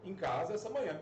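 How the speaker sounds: ordinary talk, nothing marked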